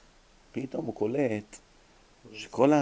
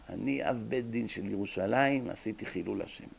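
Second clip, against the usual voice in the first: retold weeping; 3 semitones lower, 6 dB quieter than usual. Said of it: "הוא עצר ובכה".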